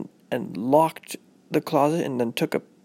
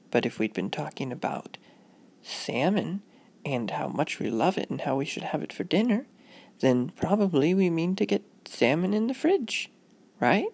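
lightly voiced motherly lilt; walk a child through it gently; mild teaching-mom voice; patient mother; 4 semitones higher than usual.

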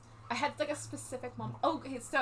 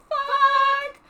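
a loud, drawn-out mock cry of dismay; shouted curse; 12 dB louder than usual. Caught by the sheriff, she cries out in dismay, loud and slow. Character swears on being caught.

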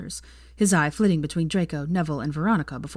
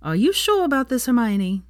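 high, louder anxious question; worried; 7 semitones higher, 3 dB louder than usual. Acted. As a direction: plead with her in worry. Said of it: "he asked worriedly".

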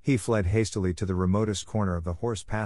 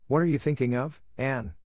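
a touch of sharpness, pitched up; sharp; 5 semitones higher than usual. Acted. Marilla asks Anne mildly sharp. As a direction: Marilla snaps a question at Anne, lightly. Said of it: "she asked sharply".

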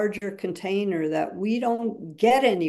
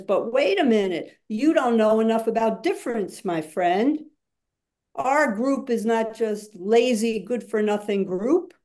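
voicing the unheard; 2 semitones higher than usual. Shown as a demonstration. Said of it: "I'd say a voice that can't speak now says".

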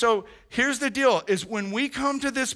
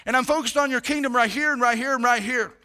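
sample prayer; 2 semitones higher than usual. Shown as a demonstration.

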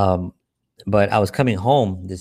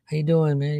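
higher, eager street greeting; addict friend; 7 semitones higher, slower than usual. Retold or imitated. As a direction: greet an old friend, a bit too eager. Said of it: "and he goes".

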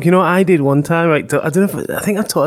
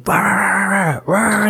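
dog barking; 4 semitones higher, much slower than usual. Retold or imitated. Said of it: "the dog's just going".

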